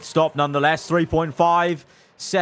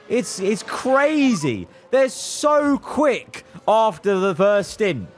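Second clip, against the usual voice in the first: exasperated; 4 semitones higher, slower than usual. Real, not acted. Exasperated at rival pace.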